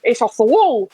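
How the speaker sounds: Somerset accent, "wall" said like "wull"; a light West Country "off the wall". Shown as a demonstration. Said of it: "Wish you didn't go Somerset there".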